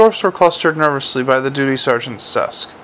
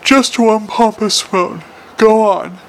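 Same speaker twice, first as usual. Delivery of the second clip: straining anger; 7 semitones higher, slower than usual. A narrator's reading. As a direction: dare them through barely restrained fury. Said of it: "feel the words straining, fighting to get out".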